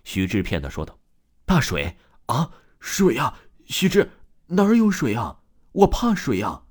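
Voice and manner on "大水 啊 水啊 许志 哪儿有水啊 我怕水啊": rising, louder, higher wail of a ghost terrified of water; 发疯似的惊恐大喊; frantic panicked cry. Acted. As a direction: shriek it like a madman afraid of drowning. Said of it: "发了疯似的一样大叫大喊".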